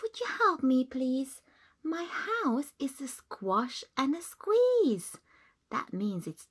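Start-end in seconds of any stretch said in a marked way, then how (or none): 0.0-5.2 put-on high, pleading little old lady. Old lady begging the wise man for help, pleading.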